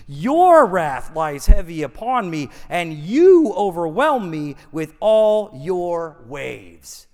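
accusing prayer, hard weight on "You" and "Your"; forceful, deliberate accusation; blaming God. Acted. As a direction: read it as a charge laid at God. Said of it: "the worshiper begins to blame God".

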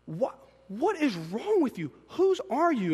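retold exasperated, bewildered scolding; exasperated parent. Dad reacting to his toddler's antics, exasperated. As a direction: question the child in disbelief, voice climbing.

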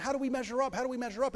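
high, questioning inner voice, well above normal; anxious inner voice. Retold or imitated. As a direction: voice the nagging doubt in our heads. Voicing anxious inner comparison.

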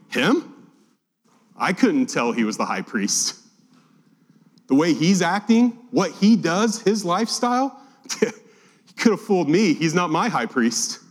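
dry mock disbelief, mildly played; sarcastic. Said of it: "Paul's actually being sarcastic".

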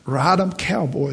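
a hint of a roller coaster yell; retold holler. Pastor recalls hollering on the roller coaster, mild mock yell. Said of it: "as loud as I could".

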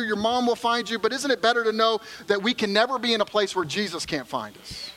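usual speaking voice

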